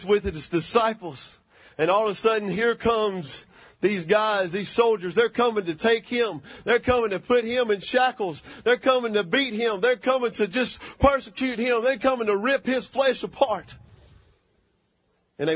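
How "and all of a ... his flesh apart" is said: driving, rhythmic preacher's build-up; preaching. Real, not acted. Preacher telling congregation of soldiers coming for Jesus, preaching. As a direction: pile up each phrase like a preacher.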